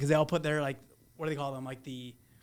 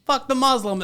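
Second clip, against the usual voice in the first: mock yelling; 9 semitones higher, 6 dB louder than usual. Mocking the movie's message.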